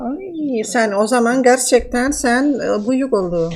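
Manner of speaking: man doing a woman's voice. Pretend. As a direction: fake Russian woman, broken Turkish. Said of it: "nasıl kadın sesi yapıyorum".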